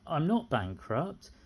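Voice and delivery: ordinary talk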